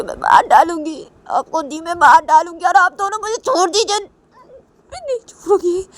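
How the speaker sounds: a furious sister who won't let go; acted fury. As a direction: blame her with rising anger. Uma furious at her sister.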